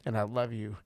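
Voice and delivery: a hint of Jesus comforting a kneeling friend; tender Jesus. Jesus comforting ashamed Peter, gentle and tender. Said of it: "He just says".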